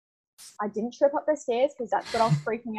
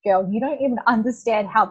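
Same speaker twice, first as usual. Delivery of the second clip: laughing retold praise; 7 dB louder than usual. Boss's excited praise, retold.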